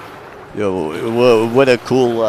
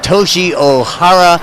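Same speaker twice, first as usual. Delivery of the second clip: raised, loud hype-up of a name; excited introduction; 7 semitones higher, 4 dB louder than usual. Real, not acted. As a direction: announce him like a star. Introducing guest to live audience.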